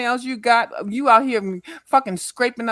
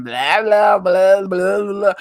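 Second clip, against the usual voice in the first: louder, droning blah blah; mock rambling; 3 semitones lower, 5 dB louder, slower than usual. Mocking Dovey's rambling to the panel, droning mimicry. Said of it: "you start rambling".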